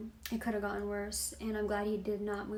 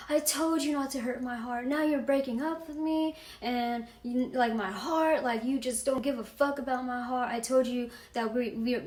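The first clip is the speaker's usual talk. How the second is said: imitating crying; 3 semitones higher than usual. Boyfriend begging her not to break up, mock-tearful. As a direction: mimic a tearful boyfriend without real sobs. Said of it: "he fucking started crying".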